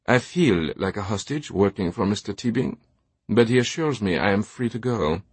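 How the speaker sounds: put-on lightly accented servant voice, deadpan joke; dry manservant. Remy jokes to the police about working for Teabing, drily. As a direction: answer with understated dry humour.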